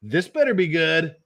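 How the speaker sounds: a hint of a lawyer's stern warning; lightly voiced stern warning. Lawyer thinking about his client, a mild stern warning. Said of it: "And he's like".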